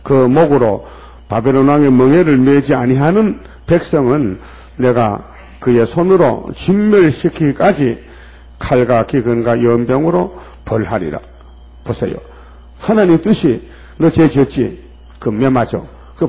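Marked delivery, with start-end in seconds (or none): 0.0-11.2 slow, solemn prophetic recitation; scripture reading. Acted. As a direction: proclaim the judgment verse. Reads prophecy aloud. (느리고 엄숙한 예언 낭독)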